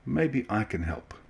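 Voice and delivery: calm voice. A narrator's reading. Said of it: "said in a calm voice".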